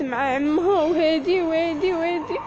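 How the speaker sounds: choked up, crying through the words; voice breaking into tears. Real, not acted. Retelling the uncle's threat to slander her, crying. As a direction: let the tears catch the words.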